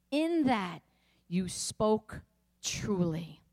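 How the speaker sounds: measured Bible reading, voicing Jesus and the woman; scripture reading. Preacher reading John four to the congregation, measured. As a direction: read the passage with gentle drama. Reads Bible passage aloud.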